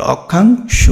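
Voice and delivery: অক্ষাংশ split as "okkhang... sho"; model pronunciation. Shown as a demonstration. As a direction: separate and round the final sho of অক্ষাংশ. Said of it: "তুমি নিজে নিজে উচ্চারণ করো". (ভেঙে "অক্খাং... শো")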